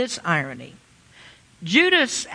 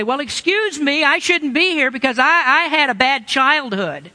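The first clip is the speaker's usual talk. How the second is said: mock excuse-making; 4 semitones higher than usual. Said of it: "you'll say".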